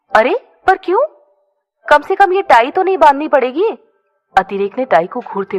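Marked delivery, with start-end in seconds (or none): 0.1-3.7 worried. A narrator's reading. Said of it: "Aditi घबराते हुए बोली".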